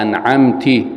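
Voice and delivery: أنعمت ending in -ti, as anʕamti; wrong vowel i. Shown as a demonstration. Teacher demonstrating the mistaken kasra in أنعمت. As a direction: end أنعمت with kasra, feminine you. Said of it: "بالكسر".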